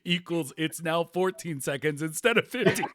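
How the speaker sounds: real amusement bubbling up into a laugh; still laughing. Real, not acted. Podcast host retelling a listener's joke, still laughing. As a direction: talk while trying to contain laughter, breaking into it at the end. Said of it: "I'm still laughing".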